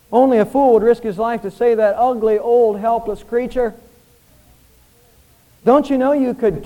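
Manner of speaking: incredulous rebuke; scolding stranger. Acted. Stranger scolds old man in story.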